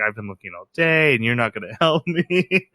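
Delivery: mock defeated customer, sagging. Customer tells the clerk he has looked all day, defeated. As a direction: give up, half laughing by the end. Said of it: "just like, defeated".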